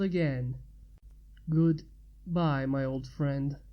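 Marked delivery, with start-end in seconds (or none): 1.5-3.6 pained. A narrator's reading. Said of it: "in a pained tone".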